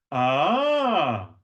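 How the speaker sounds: reward a student's success; delighted ah. Shown as a demonstration. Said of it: "Try that".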